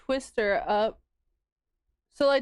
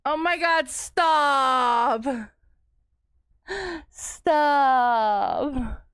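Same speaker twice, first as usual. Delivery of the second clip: laughing protest; 2 semitones higher, 4 dB louder, much slower than usual. Real, not acted. Laughing at chat.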